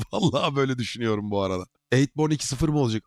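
talking around a candy; words slurred by a candy in mouth. Real, not acted. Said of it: "Ağzına ne oldu?".

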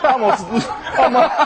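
giggling through words; laughing, high and breathless. Real, not acted. Reporter laughing with snake.

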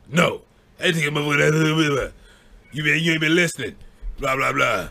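fast, garbled angry mock rant; a hint of the uncle mumbling mad. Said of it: "My uncle's like".

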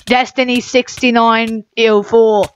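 a mild put-on girly teen; teenage girly voice. Gamer mocks an opponent in a teenage girly voice. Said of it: "Teenage girly voice".

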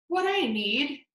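lightly voiced small mouse, dreaming aloud; hopeful mouse. Mouse wishing for a roar, lightly voiced hopeful mouse. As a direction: talk yourself into being braver.

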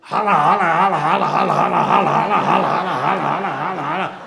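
very loud repeated "rala"; booming order. Retold or imitated. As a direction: bellow it like a general. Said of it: "já saiu assim".

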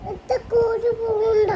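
tearful whine; crying. Real, not acted. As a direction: plead while crying. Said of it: "എന്തിനാ നീ കരയണേ?".

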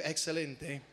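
a light Argentine lilt on "Excelente"; Argentine accent. Retold or imitated. Preacher answering his Argentine pastor friend, in a light Argentine accent. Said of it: "Así a lo argentino".

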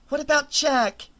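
high, loud demand; high, loud demanding question. A narrator's reading. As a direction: confront them, refusing to leave. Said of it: "Rachel demanded".

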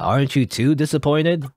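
animated game character, swinging between huffy and chummy; cheeky self-important spirit. Acted. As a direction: talk down to the listener playfully. Plays the boastful spirit.

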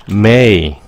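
slow and careful "may I have"; polite model. Shown as a demonstration. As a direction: stretch the polite request out. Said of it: "lịch sự hơn".

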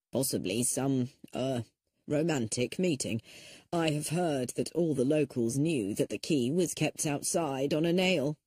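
a prim lawyer clearing his throat; stuffy old lawyer. Acted. Lawyer speaks.

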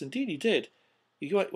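ordinary delivery

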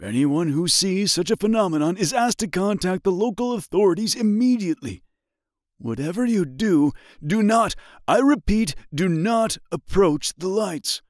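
high muffled emergency broadcast; muffled radio voice. A narrator's reading. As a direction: read like a crackly news bulletin. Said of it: "followed by a muffled voice".

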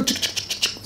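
unvoiced clicking of counted notes; bill-counting clicks. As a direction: click out each banknote. Imitating counting out bills.

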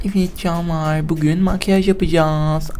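slow, sweet mock vlogger intro; light mock makeup-video voice; mock beauty vlogger. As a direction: coo it like a makeup tutorial host.

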